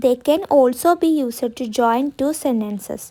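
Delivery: each word spaced for writing; slow dictation. Shown as a demonstration. Teacher dictating a sentence to students, very slow. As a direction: dictate slowly so students can copy. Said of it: "dictating the definition".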